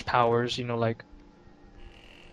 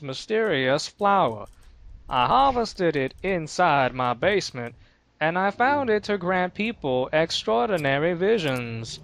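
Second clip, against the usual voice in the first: slow, grand storyteller voice; dramatic reading voice; 3 semitones higher, slower than usual. Retold or imitated. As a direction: read it like a solemn villain's letter. Reads dad's letter in dramatic voice.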